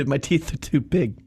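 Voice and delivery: slow mock lisp on "teeth"; imitated lisp. Making fun of the lady's big teeth, slow lisp. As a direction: lisp it as if teeth crowd the tongue. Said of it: "One lady had a lisp".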